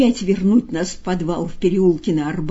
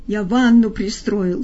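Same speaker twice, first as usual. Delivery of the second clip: terrified cry. Acted. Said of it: "стуча зубами, кричал окровавленный".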